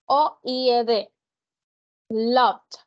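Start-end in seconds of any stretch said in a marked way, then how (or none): 2.1-2.8 "Loved" ending on a clear D sound; clear final D. Shown as a demonstration. Teacher showing students the final D in "Loved". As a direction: say "Loved" and let its final D be heard. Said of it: "¿Escuchan esa D?".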